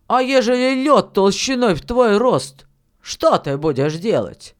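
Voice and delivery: emphatic testing question, pitch falling at the end; lightly voiced sceptical miller; challenging miller. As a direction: test the boy's plan firmly. Miller challenges the boy's plan.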